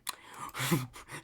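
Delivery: whispered villain giggle; mock Joker giggle. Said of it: "Joker edition".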